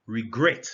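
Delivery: REGRET stressed on GRET; second-syllable stress. Shown as a demonstration. Teacher shows where stress falls, REGRET as re-GRET. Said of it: "stress is on the second syllable".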